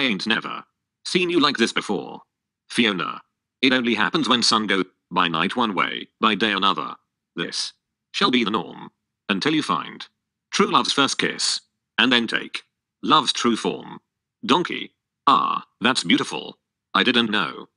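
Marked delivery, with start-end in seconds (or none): 3.6-14.0 reciting a spell. Acted. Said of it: "You wrote poetry".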